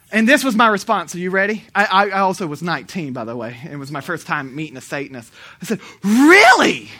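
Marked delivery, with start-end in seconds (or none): 6.0-6.9 loud, high mock astonishment; amazed exclamation. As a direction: blurt it out in hammed-up amazement. Retells his amazed response to Satanist.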